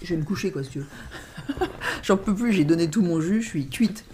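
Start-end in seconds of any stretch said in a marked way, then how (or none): 0.9-2.0 high airy laugh; breathy laugh. Real, not acted. Laughing at her own exhaustion, high and airy. Laughing about being worn out.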